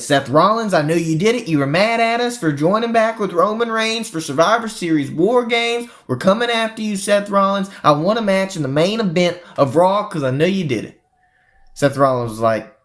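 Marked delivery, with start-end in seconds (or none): 0.0-11.0 raised pitch, mock angry callout; lightly acted furious challenge; Sami Zayn's challenge. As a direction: call him out like an angry wrestler. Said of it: "and he said".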